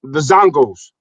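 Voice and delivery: put-on West African accent. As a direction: speak in a Nigerian-sounding West African accent. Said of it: "How was my West African accent?".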